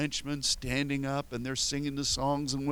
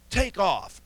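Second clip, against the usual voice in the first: mock takeoff cry; 8 semitones higher, 8 dB louder than usual. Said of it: "It was just".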